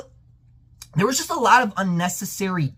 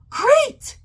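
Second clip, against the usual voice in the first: high, squeaky mock cheer; sarcastic enthusiasm; 4 dB louder than usual. Fan replying to brother about changed lore, sarcastic enthusiasm. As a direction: fake delight, pitched way up.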